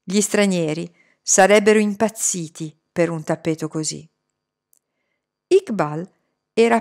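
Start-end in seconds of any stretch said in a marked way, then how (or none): none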